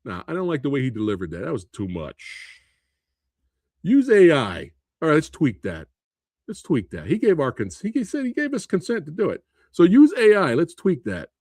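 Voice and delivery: a light dismissive producer voice; understated mock producer brushing it off. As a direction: play a bored studio suit. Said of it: "a producer coming in and be like".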